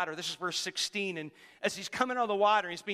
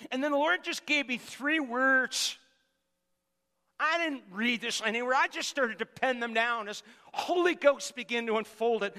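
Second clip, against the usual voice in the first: ordinary talk, nothing marked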